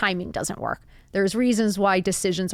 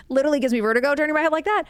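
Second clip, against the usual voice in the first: laughing; 7 semitones higher, 4 dB louder, much faster than usual. Real, not acted. Laughs at her own head turning.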